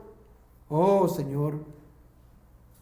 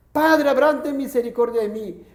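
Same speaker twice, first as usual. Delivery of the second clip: rich man crying out; 2 semitones higher than usual. Acted. Rich man in hell calls Abraham, mild pleading shout. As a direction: call out to Father Abraham for mercy. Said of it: "Entonces él grita, da voces".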